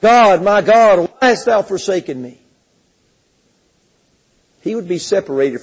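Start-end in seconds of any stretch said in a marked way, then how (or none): 0.0-2.4 a hint of the cry, dying away; mild cry from the cross. Preacher voices Jesus on the cross, mild cry fading. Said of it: "crying out and saying".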